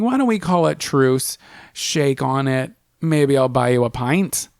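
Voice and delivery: lightly put-on cowboy accent; casual attempt at a cowboy accent. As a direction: offer a truce with a hint of cowboy twang. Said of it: "That's my cowboy accent".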